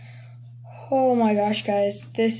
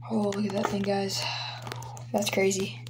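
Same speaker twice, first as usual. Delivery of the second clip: hushed whisper, softer; real whispered admiration; 3 semitones lower, 7 dB quieter than usual. Real, not acted. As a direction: breathe it out in quiet awe. Admiring card again.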